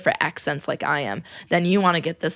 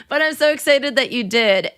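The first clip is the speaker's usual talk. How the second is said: excited; 6 semitones higher than usual. Real, not acted. Thrilled thanks to new patron.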